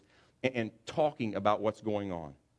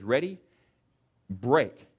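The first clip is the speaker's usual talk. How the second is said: a hint of a quarterback barking ready then break, louder on break; quarterback call; 2 semitones higher, 5 dB louder, much slower than usual. Preacher voicing the quarterback breaking the huddle, mild bark. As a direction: snap the team out of the huddle.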